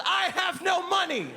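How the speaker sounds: high mock yell from a car; yelling out the window. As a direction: shout it out as you drive away. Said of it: "rolled down my window and yelled".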